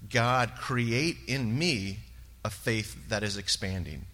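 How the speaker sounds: slow prayer. Real, not acted. Praying in his own words.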